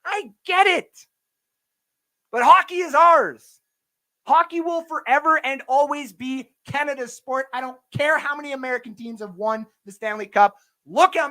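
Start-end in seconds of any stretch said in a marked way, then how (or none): 2.3-7.5 proud declaration. Real, not acted. Ranting to viewers that hockey belongs to Canada, loud and proud. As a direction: stake the claim firmly. Patriotic rant peak.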